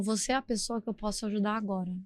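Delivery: softly voiced kind stranger; gentle offer. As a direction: offer it quietly and tenderly. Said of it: "Ela olhou pra mim e falou".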